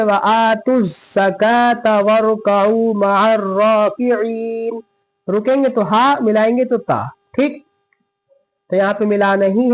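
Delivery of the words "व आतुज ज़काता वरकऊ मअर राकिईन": slow recitation running straight through ज़काता; joined recitation. Shown as a demonstration. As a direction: link ज़काता into the next words without a pause. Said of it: "फिर मिलाएंगे".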